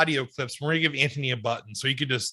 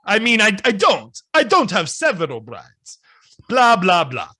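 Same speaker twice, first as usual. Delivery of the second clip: lightly voiced Dracula. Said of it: "me as Dracula".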